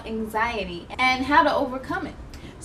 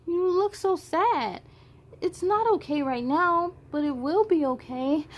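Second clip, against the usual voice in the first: sad, near tears. Acted. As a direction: let it break into crying. Alma's sadness, ends crying.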